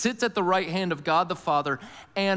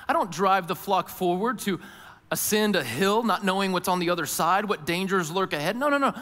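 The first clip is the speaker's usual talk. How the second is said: preacher lightly voicing a shepherd, raised and emphatic; resolute shepherd; 4 semitones higher, 4 dB louder than usual. Preacher speaking as Jesus the shepherd to the flock, resolute. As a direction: declare it as the leader who goes first.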